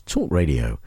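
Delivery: low, soft voiceover slogan; mock station-ident voice, pitched right down; slogan read. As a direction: intone the station slogan, deep and hushed. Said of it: "The slogan, of course, is".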